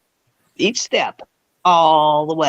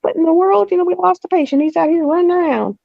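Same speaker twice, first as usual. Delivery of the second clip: lightly imitated astonished nurse, higher; a touch of high mock shock; mock disbelief; 10 semitones higher, faster than usual. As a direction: staff retelling the escaped patient, higher. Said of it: "It's like".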